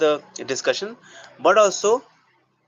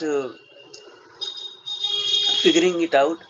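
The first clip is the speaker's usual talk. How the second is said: hesitant explaining to a partner; dialogue with co-actor. Shown as a demonstration. Actor telling co-actor he was only self-talking, dialogue. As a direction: explain yourself haltingly, with pauses. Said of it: "Shift to the co-actor".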